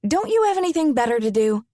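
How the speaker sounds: annoyed. Acted. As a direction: fire it back, fed up. She turns to glare at him.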